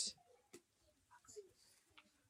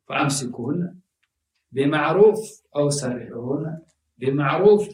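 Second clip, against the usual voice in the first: quick recited Arabic verse; Quran recitation; much faster than usual. Acted. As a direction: chant the verse swiftly.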